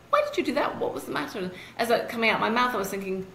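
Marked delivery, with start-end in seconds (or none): 0.1-1.4 much higher, anxious-sounding questions; concerned daughter. Retold or imitated. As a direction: ask like a worried daughter, pitched up. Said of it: "I said".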